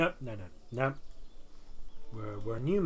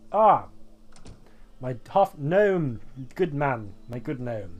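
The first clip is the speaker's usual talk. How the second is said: loud hearty greeting; 5 dB louder, slower than usual. Acted. Shopkeeper NPC greeting loudly.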